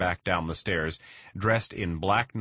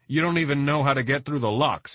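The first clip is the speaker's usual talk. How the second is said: scornful retort; 8 semitones higher, 5 dB louder than usual. Acted. Vargas argues he is needed.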